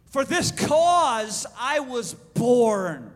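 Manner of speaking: measured, drawn-out proclamation; solemn declaration. Acted. Jesus answering Pilate about his cause, lightly acted solemn declaration. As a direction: stretch the key words with weight.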